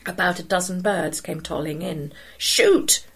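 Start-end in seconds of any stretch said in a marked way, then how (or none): 2.4-3.0 high hoarse holler. A narrator's reading. Son hollering from the boat to the boy on the ledge. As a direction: holler across the water. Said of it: "his son hollered".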